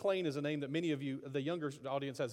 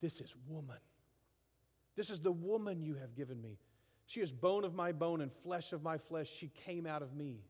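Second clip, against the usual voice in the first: tender adoration. Retold or imitated. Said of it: "a cheesy hairband love song".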